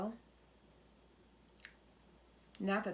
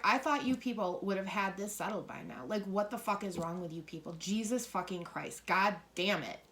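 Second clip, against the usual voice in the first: angry vet. Retold or imitated. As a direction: grumble it like a fed-up old soldier, then blow up at the end. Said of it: "He's so fucking angry".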